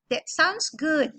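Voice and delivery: slow "That sounds good" with lifted intonation; rising intonation. Shown as a demonstration. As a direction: raise the tune on "sounds good". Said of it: "naikkan intonasinya".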